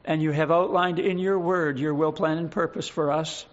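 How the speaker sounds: earnest prayer to God, steady and measured. Real, not acted. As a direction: pray it sincerely for the congregation. Opening prayer before the sermon.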